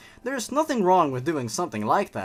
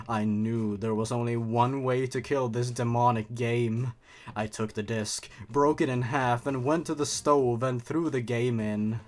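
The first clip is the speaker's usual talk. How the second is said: horror story narration; 2 semitones lower than usual. A narrator's reading. Reads horror story aloud.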